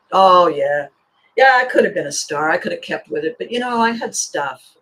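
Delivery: mock regretful dreamer, loud sighing start; excuse-making dreamer. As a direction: lightly play someone making lame excuses. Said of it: "We've all heard people talk like this".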